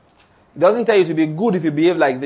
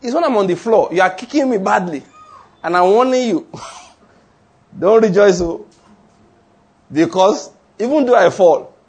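man on the ground; 2 semitones higher, 3 dB louder than usual. Retold or imitated. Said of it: "Only a man that's on the ground speaks".

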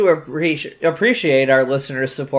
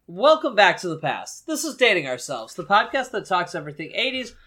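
softer, still catching breath from laughter; recovering from a laughing fit, quieter; after laughing hard; 4 dB quieter than usual. Real, not acted. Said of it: "let me compose myself here".

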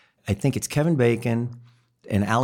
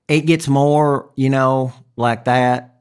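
Alabama-Mississippi accent; 4 semitones higher, 4 dB louder, much slower than usual. Shown as a demonstration. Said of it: "you get kind of Alabama and Mississippi".

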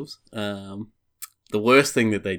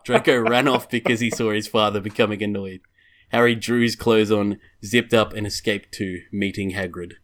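measured storybook reading voice; story narration. Acted. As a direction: read it out like a storybook. Reads erotic fan fiction aloud.

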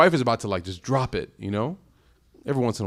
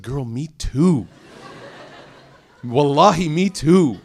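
laughing through the words, a bit louder; 4 dB louder, slower than usual. Real, not acted. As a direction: chuckle it out in sympathy. Laughing along with tired daughter.

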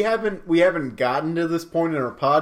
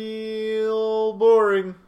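drawn-out bored drawl; 6 semitones higher, much slower than usual. Pretend. Drawn out, slow.

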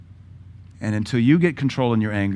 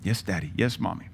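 much softer, small lower "Yes, Daddy"; meek child; 4 semitones lower, 8 dB quieter than usual. Retold or imitated. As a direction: answer like a cowed little kid. Frightened child answering parent.

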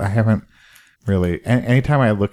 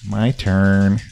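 funny put-on voice; 3 semitones lower than usual. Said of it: "What was that voice?".

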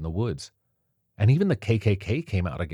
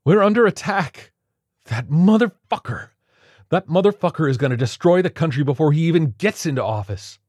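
higher, louder, cursing rage; furious cry; 10 semitones higher, 8 dB louder than usual. A narrator's reading. Violinist raging at the president-elect, furious shout. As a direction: spit out the curse in fury. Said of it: "cried the violinist".

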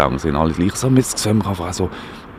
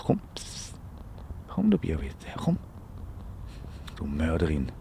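hushed coaxing; 5 semitones lower, 12 dB quieter than usual. Real, not acted. Coaxing the cat to come.

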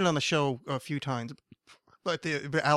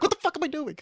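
retold self-disbelief; 12 semitones higher, faster than usual.

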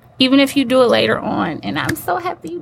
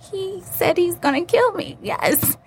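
hushed whisper, higher and breathy-free; 8 semitones higher than usual. Retold or imitated. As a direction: whisper it like a secret to the judge. Hushed aside while telling judge.

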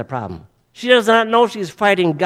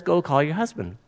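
softly, a little lower; quiet instruction; 4 semitones lower, 7 dB quieter than usual. Acted. Jesus talking to the woman at the well, quiet instruction. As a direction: give the instruction gently and without accusation.

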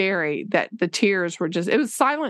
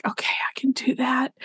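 whispered reply; 4 semitones higher than usual. Retold or imitated. Crying boy answers his teacher in a whisper. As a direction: breathe it out like a shy kid. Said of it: "he's like".

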